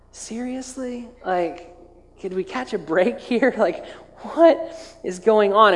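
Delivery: drawn-out, baffled "what is going on"; exasperated disbelief. Acted. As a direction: play the disciples' comic exasperation. Voices exasperated disciples' reaction.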